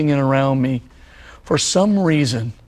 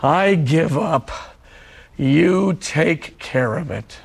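slow, measured surrender prayer; unhurried prayer with a pause between phrases; simple prayer; slower than usual. Acted. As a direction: say it slowly, letting each phrase land. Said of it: "the prayer just simply goes like this".

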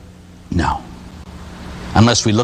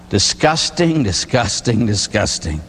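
fading disgust, dropping each time; mock disgust; 4 semitones lower, slower than usual. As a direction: repeat it, sinking lower in revulsion. Urine in the bath.

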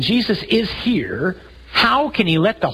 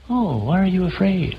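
mild gentle mock; 2 semitones higher than usual. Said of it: "He doesn't say".

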